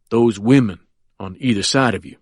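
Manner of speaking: put-on smiling at a frightened child; confident old lawyer. Quentin answers.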